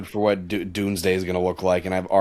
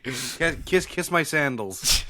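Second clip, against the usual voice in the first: booming echoing villain monologue; 5 semitones higher, slower than usual. Pretend. Mock royal command.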